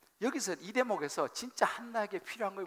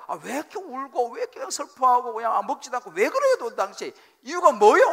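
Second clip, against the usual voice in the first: raised, loud demand for an explanation; exasperated husband; 5 semitones higher, 10 dB louder than usual. Acted. Husband questioning his crying wife, loud and exasperated. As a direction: press your wife loudly for a reason.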